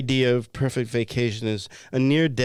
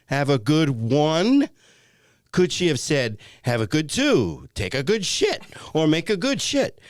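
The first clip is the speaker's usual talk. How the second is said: exasperated rant, pitch climbing; mildly outraged, emphatic complaint; worked up; 4 semitones higher than usual. Acted. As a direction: rail indignantly, stretching the key words. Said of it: "you're getting a little worked up".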